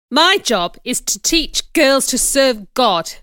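loud, slow, pompous pronouncement; emphatic declaration. Acted. Man justifying himself to the teacher, loud and declaratory. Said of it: "he declared".

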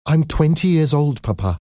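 high-pitched protest, dropping at the end; exclaiming. A narrator's reading. Daughter protesting to her father, exclaiming. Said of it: "Cosette exclaimed".

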